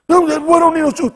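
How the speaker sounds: high put-on country voice; country relative voice. Telling the city kid in a high country voice. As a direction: bark it like the old country man. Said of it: "I'm like".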